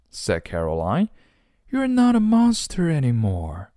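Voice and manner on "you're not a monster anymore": high, marveling mom voice; high-pitched storybook amazement; amazed mother. Acted. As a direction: voice a mother astonished at her child. Mother amazed at changed child.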